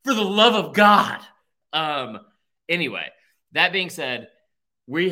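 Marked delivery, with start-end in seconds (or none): 0.0-1.2 drawn-out plea building to a loud, high cry; Billy Madison. Retold or imitated. Movie quote urging someone to stay in college, mock-desperate plea. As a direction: imitate a movie plea, slow, then burst out louder. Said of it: "it's like the Billy Madison thing".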